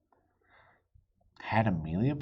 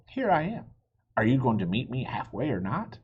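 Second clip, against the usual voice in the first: put-on expectant child; 3 semitones higher than usual.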